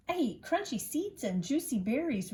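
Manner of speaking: mouse voice. A narrator's reading. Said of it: "replied the mouse".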